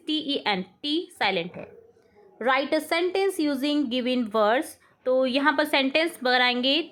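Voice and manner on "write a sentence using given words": very slow, word by word dictation. Shown as a demonstration. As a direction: read it out slowly for the class to write. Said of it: "teacher reads instruction". (धीमे-धीमे बोलकर लिखवाना)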